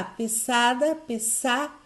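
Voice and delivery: "pesada", then "pesar" cut off at a stressed SA. Shown as a demonstration. Teacher locating the strong syllable, stressed SA in "pesada, pesar". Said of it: "o sa é a forte".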